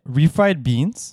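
slow teasing repeat; slow drawn-out. Acted. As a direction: drag it out to annoy. Repeating slowly to annoy.

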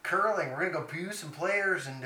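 lightly attempted Canadian hoser voice; Canadian accent. Co-host echoing the hoser in a light Canadian accent. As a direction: join in with a mock Canadian accent. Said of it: "Let out the inner Canadian".

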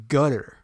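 'gutter' with a hard g and stress first; GUT-er, first syllable stressed; mispronounced Qatar. Retold or imitated. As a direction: say gutter, like a roof gutter. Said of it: "everyone keeps pronouncing it".

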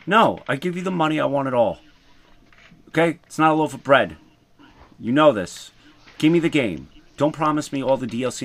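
loud, insistent rant; heated rant. Real, not acted. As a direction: push it like a fed-up gamer. Ranting about game prices.

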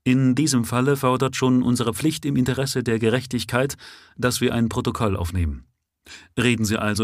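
a hint of a dry, official inspector reading out a caution; matter-of-fact officer doing his duty; lightly voiced police inspector. Inspector formally warning the prisoner, lightly voiced officialdom.

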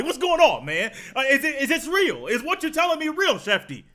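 all caps disbelief, shouted high; mock yell. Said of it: "like you yelled at somebody".

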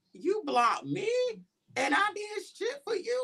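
high, indignant retold outburst; shocked, indignant retelling of his blocking; outraged quote. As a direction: throw the hurt back at him, pitch way up.

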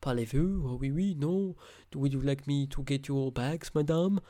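mocking, exaggerated French accent; weird French accent. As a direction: imitate a badly done French accent. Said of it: "she has a weird French accent".

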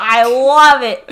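slow gloat. Retold or imitated. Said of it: "And he's like".

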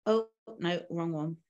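normal talking voice

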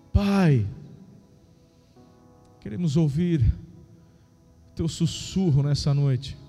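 fervent worship prayer over music. Acted.

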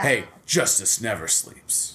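slow, gruff superhero line; Batman voice. Pretend. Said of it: "Sound like Batman".

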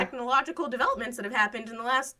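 high, loud mock gratitude; overly grateful sarcastic thanks.

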